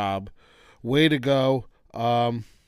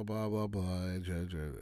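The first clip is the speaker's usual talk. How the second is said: normal talking voice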